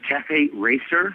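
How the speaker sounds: slow, clear repeat. Real, not acted. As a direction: spell out Cafe Racer slowly. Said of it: "Cafe what?".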